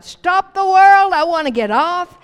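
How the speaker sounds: hammed-up desperate yell, stretched out; exasperated cry. Crying out an exasperated saying.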